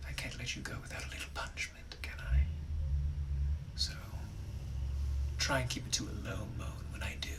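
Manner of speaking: soft, unvoiced menacing whisper; a gentleman's cruel whisper to the maid; sinister whisper. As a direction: breathe the threat quietly. Gentleman threatening the snooping maid.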